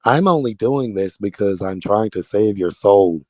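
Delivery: quoting Lisa. Retold or imitated. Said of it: "said yesterday out of her own mouth".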